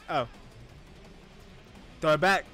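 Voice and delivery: usual speaking voice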